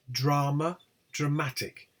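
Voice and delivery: DRAMA on DRA, DRAMATIC on MA; stress shift. Shown as a demonstration. Teacher showing attracted stress, shift to MA. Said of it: "They attract the stress".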